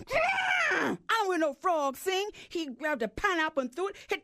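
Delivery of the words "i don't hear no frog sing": elephant heckling shout. Acted. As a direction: bellow the heckle from the crowd. The elephant jumped up.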